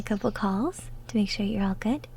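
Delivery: sudden soft whisper. Acted. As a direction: let the voice fall to a breath. Mid-sentence drop to whisper.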